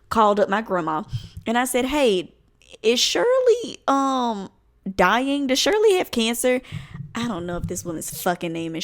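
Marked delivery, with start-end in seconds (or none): 1.9-6.6 mock frantic question. Frantic call to grandma.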